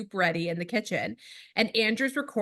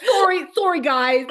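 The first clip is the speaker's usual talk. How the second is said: 1 laughing apology; 7 semitones higher, 8 dB louder than usual. Real, not acted. Jokingly apologising to listeners.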